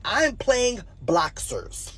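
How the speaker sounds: normal talking voice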